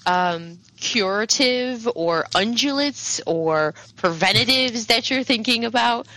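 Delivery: lightly voiced posh shopkeeper, politeness slipping slightly; halting, polite sales patter, a touch strained; faltering politeness. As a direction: keep up nice manners while faintly put off. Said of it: "it kinda just, like, falters ever so slightly".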